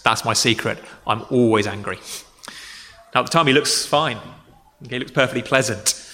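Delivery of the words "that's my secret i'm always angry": lightly voiced Banner, lower and calm; a hint of Banner's understated menace; low, calm movie quote; Banner's quiet line. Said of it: "And Banner turns and says".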